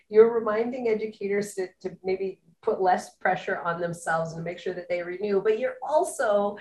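said with a smile in the voice; friendly, smiling delivery; audible smile. Real, not acted. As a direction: smile warmly through the praise. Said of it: "hear the smile in my voice".

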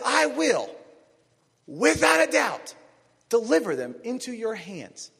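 high, loud and slow divine promise; voice of God. Acted. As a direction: declare it as God, stretching without a doubt. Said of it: "God says".

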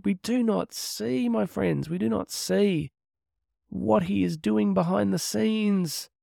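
drawn out, weighted words; slow right down to drive the point home; slow, earnest emphasis. Real, not acted. Driving home the story's moral.

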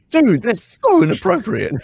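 mock-shocked colleague, cracking up; laughing, scandalized team. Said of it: "And they're like".

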